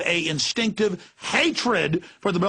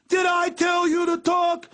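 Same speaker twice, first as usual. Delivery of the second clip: much higher, slow barking cop demand; drill sergeant bark; 13 semitones higher, slower than usual. Retold or imitated. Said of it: "like they're a drill sergeant".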